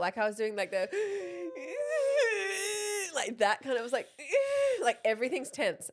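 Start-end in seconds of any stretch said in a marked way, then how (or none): 0.9-3.1 long, high wounded-animal whine; thin sustained keening, re-enacted; imitated whimper. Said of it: "I'm, like, whimpering like a wounded animal". 4.1-4.8 short high pained whine; re-enacted high squeal of pain; imitated whimper. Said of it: "I'm, like, whimpering".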